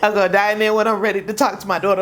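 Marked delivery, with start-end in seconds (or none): 0.0-0.5 mock panic. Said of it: "behind doors to my husband".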